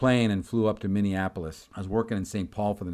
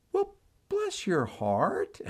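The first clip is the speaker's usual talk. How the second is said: softened sympathy; 9 semitones higher, much slower than usual. Retold or imitated. Clerk softens, Southern condescension.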